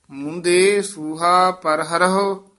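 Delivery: ਪਰ ਹਰਹੁ with two audible h sounds; both h sounded. Shown as a demonstration. Teacher modelling the verse, ਹਰਹੁ with both h. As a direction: read the line, ending ਹਰਹੁ as "ha-ra-ho". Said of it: "ਦੋਵੇਂ ਹਾਹੇ ਉਚਾਰਨ ਕਰਨੇ ਹਨ".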